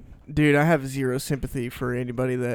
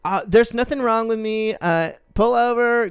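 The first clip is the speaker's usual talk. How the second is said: mock drunk girl; 6 semitones higher than usual. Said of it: "she goes".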